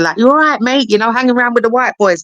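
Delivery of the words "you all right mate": Cockney geezer impression. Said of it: "he's like a proper Cockney geezer".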